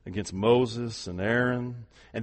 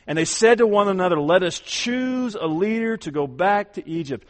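louder, higher, building preacher's cry; full-force preaching; 8 semitones higher, 6 dB louder than usual. Acted. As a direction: lift the congregation with soaring proclamation. Preacher reading Israelites' fear aloud.

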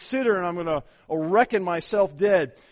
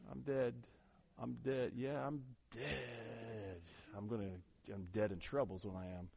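mumbled, much softer, low and limp; a lightly voiced hollow promise, barely meant; half-hearted; 5 semitones lower, 17 dB quieter than usual. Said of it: "don't hover over the computer and say".

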